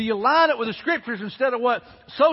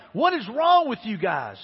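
mock angry king, higher pitch; retold anger; 4 semitones higher than usual. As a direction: imitate an exasperated, angry king, mildly. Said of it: "He's angry, man. He's like".

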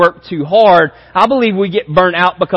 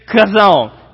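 louder Hebrew word. Shown as a demonstration. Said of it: "do it better than that".

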